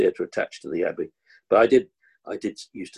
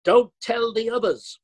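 sneaky secret; 13 semitones higher than usual. Retold or imitated. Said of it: "He said".

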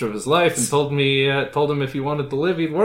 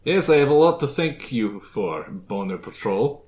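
put-on Transylvanian accent; 3 semitones lower than usual. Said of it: "Transylvanian accent".

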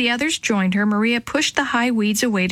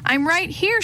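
yelling; 8 semitones higher than usual. A narrator's reading. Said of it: "she yelled back".

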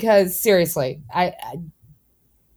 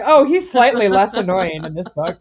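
mocking quote. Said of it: "she's like".

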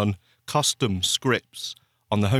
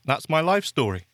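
chewing while talking; mouth full; 3 semitones higher than usual. Real, not acted. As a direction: talk through a mouthful. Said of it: "You can hear me chewing away".

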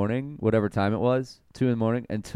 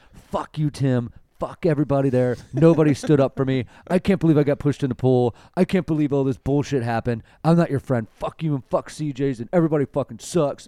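raised, louder furious rant in imitation; mock angry rant; 3 semitones higher, 3 dB louder than usual. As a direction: read the texts like a drunk, furious friend. Reading out drunk friend's angry texts.

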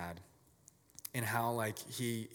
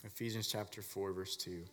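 quiet dictation of the reference; repeated for writing down; 6 dB quieter than usual. Shown as a demonstration. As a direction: say "verse two" softly so they can write it. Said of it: "I want you to write down".

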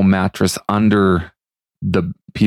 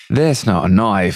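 Crocodile Dundee; slower than usual. Retold or imitated. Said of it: "He's like".

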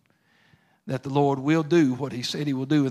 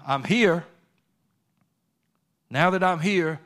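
faster, louder preaching push; a preacher driving the point home, getting louder; rising preaching fervor; 3 dB louder than usual. Acted. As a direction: press the question on the congregation. Sermon builds to fervent preaching.

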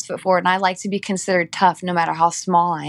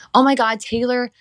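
gushing praise; 4 semitones higher than usual. Retold or imitated. People gushing praise after routine.

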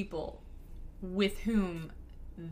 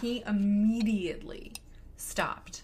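dropped to a hush; hushed, confiding telling; slower than usual. Real, not acted.

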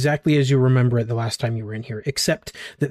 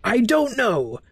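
higher, puzzled little idol voice; bobblehead spirit voice; 6 semitones higher than usual. Acted. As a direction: speak as a confused, trapped gatekeeper spirit.

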